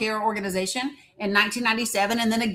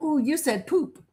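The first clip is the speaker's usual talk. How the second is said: mock teasing child voice, higher pitch; 5 semitones higher than usual. Describing how little kids act, imitating little kids teasing. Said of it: "You know how little kids are. They're like".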